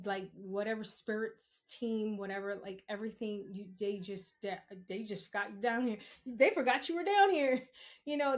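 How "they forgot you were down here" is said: louder, higher, driving it home; a raised, exasperated restatement; emphatic repeat. Real, not acted. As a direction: punch out "They forgot you were down here".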